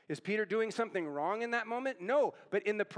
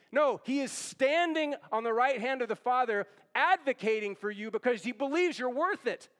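punchy, insistent sermon delivery; emphatic preaching; 3 semitones higher, 3 dB louder than usual. Real, not acted. Preacher declaring the gospel to the congregation, emphatic preaching. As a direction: proclaim the good news with conviction. Preaches worth in Christ forcefully.

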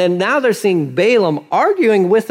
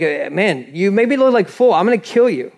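quick, higher-pitched mock threat; angry Balaam; 4 semitones higher than usual. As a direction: rattle off a lightly acted angry threat. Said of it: "he's so angry".

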